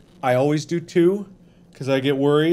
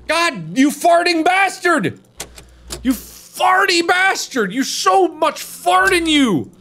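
mock angry yell; 11 semitones higher than usual. Real, not acted. Yelling at bear.

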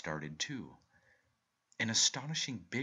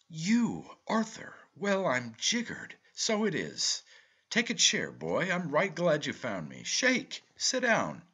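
loud, high, delighted uncle; hearty greeting; 10 semitones higher, 9 dB louder, slower than usual. A narrator's reading. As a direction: boom out a hearty welcome. Uncle hails nephew heartily.

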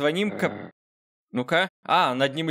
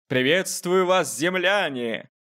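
slow, high alien greeting; 5 semitones higher, slower than usual. Pretend. Alien greeting for app to repeat.

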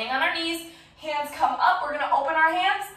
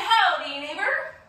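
playful howdy; 3 semitones higher, 5 dB louder than usual. Shown as a demonstration. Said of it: "we're gonna say".

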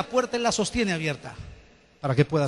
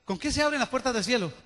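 "¿Con qué se abren las puertas del cielo?" repeated much softer, falling at the end; 5 dB quieter than usual. Shown as a demonstration. Pastor repeating the question quietly to make it land. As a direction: drop your voice and let the question sink in. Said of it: "repeats question, second take".

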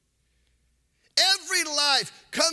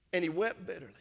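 hushed; 8 semitones lower, 8 dB quieter than usual. Acted. Preacher drops voice on Peter's grief.

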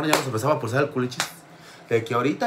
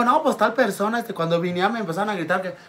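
put-on higher anxious kid voice; lightly voiced frightened boy; child explaining; 8 semitones higher than usual. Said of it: "Y yo digo".

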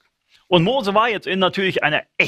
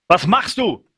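higher, pushing God's voice, rising to a final high "mach was"; urgent prodding; 4 semitones higher, slower than usual. Acted. God urges Moses to act, prodding and rising. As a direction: nudge him hard to get moving. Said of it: "Er sagt".

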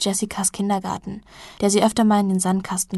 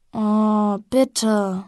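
put-on pleading child; 3 dB louder than usual.

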